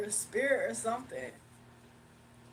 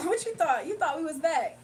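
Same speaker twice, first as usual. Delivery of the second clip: sassy talking voice; 4 semitones higher, 6 dB louder than usual. Acted. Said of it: "my voice was like".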